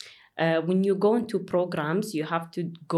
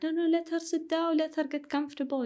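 high, mock pleading boys' voices; protective classmates; 10 semitones higher than usual. Boys in class asking the professor to let her sit, pleading high. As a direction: plead her case in a raised, put-on voice. Boys urging teacher to go easy.

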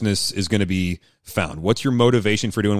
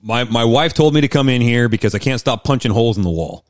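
playing an angry husband in counseling; 2 semitones higher than usual. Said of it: "let's role play it".

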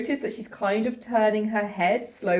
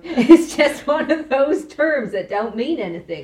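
Southern Atticus; 5 semitones higher, 5 dB louder than usual. Pretend. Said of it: "Atticus says".

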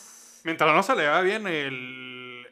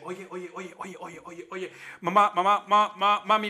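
Family Guy quote; 4 dB louder than usual. Retold or imitated. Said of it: "Del Family Guy".

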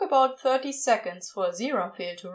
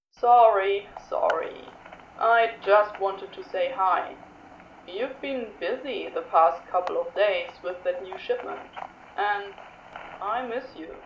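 sheepish Crowley; 3 semitones lower than usual. A narrator's reading. Crowley apologising tenderly.

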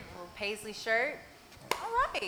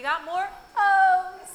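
laughing; 8 semitones higher, 10 dB louder, much slower than usual. Real, not acted. Host teasing, then laughing.

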